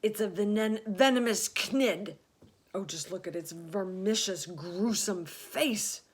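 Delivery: recoiling from a monster; horrified. A narrator's reading. Police chief horrified by the spider's face, loud and high.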